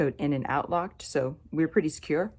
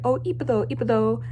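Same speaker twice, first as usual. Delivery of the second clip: imitated confident praise; 6 semitones higher than usual. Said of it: "he's saying it all nice and confident".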